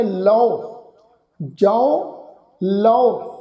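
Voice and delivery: ਲਓ and ਜਾਓ said with an "au" vowel; kanaura vowel. Shown as a demonstration. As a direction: sound out each word alone, drawing ਲਓ into "lau". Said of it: "ਕਨੋੜੇ ਦੀ ਮਾਤਰਾ ਵਾਂਗੂ ਉਚਾਰਨ ਹੋਏਗੀ".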